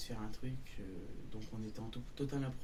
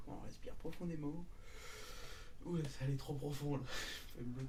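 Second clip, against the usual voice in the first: after laughing hard; 5 dB quieter than usual. Real, not acted. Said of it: "j'en pleure de rire".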